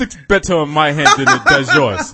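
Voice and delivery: hammed-up Russian accent, amused; bad Russian accent. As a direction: do a terrible comic Russian accent. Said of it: "That's a terrible Russian accent".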